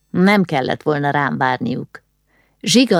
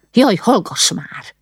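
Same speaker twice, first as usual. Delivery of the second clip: drawn-out, higher exasperated rebuke; scolding; 4 semitones higher, slower than usual. A narrator's reading. Mother scolds her son for upsetting a relative, exasperated. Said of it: "ráripakodott a fiára".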